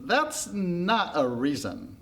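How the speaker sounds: slow, drawn-out objection; stubborn retort. Acted. Pandora rejecting the crowd's reason, stubbornly. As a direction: push back, stretching each word.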